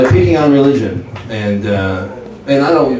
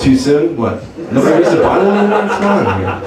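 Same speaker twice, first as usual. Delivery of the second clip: stand-up comic Jesus; 2 semitones higher than usual. Retold or imitated. Jesus on the cross opening his comedy set. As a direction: work the room like a cheesy headliner. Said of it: "ultimate stand-up comedian".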